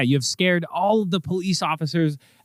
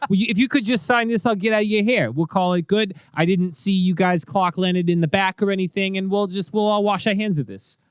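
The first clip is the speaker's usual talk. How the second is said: high, quick, smooth-talking cop; higher-pitched crooked cop; bribing cop; 8 semitones higher than usual. Acted. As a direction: rush the deal through.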